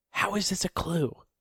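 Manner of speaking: hushed, quiet whisper. A player's character holds the group back and whispers to them. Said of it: "and I whisper".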